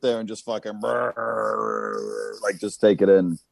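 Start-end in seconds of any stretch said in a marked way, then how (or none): 0.8-2.4 long low droning brrr; imitated brrr. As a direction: let a zoned-out brrr roll on slowly. Imitates zoning out watching TV.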